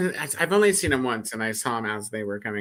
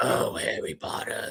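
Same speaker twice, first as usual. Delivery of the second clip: put-on raspy, old voice of a lifelong heavy smoker; 3 semitones lower, 4 dB quieter than usual. Imitating the voice a performer gives a woman character, old smoker voice. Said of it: "she sounds like an old smoker".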